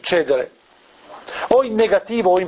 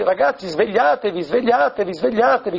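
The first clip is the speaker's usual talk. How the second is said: urgent exhortation, slightly higher, not shouted; mild mock cry; 4 semitones higher than usual. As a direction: imitate an insistent wake-up call, repeated. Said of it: "Gesù continua a gridare". (esortazione insistente, grido appena accennato)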